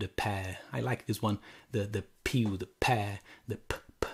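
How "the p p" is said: p p puffed unvoiced; repeated p sound. Shown as a demonstration. Teacher to class, popping the p sounds. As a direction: pop the p sounds. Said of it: "the alliteration".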